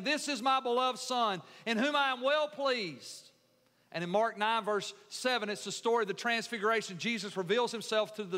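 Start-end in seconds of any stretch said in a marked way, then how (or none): 0.0-3.3 ringing, emphatic proclamation; heavenly proclamation. Acted. Preacher quotes the voice from heaven, ringing proclamation. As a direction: proclaim it out to everyone.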